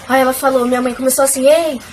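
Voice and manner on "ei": higher, mildly raised "hey"; retold sharp call for attention; mother raising her voice. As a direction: imitate an alarmed mother calling out. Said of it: "Aí ela começou a falar, sabe, mais alto".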